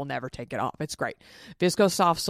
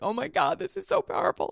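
mock sobbing; 11 semitones higher than usual. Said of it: "I was, like, sobbing".

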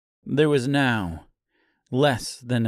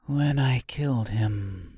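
put-on calm girl, no trace of sobbing. A narrator's reading. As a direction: say it evenly and unhurried. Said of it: "she said calmly".

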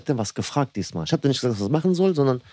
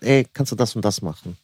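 ruhig und sachlich nachgestellte Bitte; vernünftige Bitte; 3 semitones lower than usual. Retold or imitated. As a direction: ganz vernünftig fragen, ohne Druck. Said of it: "Ganz vernünftig". (vernünftig gefragt)

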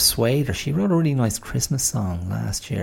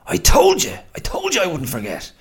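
gleeful whisper; 10 semitones higher, 7 dB louder than usual. Real, not acted. Gloating to himself after checking.

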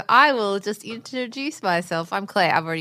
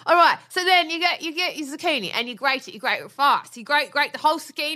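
lilting, higher British chef patter; Jamie Oliver impression; 5 semitones higher than usual. Wife resumes recipe in character, mock British chef voice. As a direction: rattle through it as a matey British cook. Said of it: "back to my Jamie Oliver minute".

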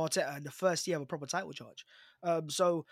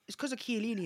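put-on Italian accent; 6 semitones higher than usual. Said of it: "you easily just tipped into an Italian accent".

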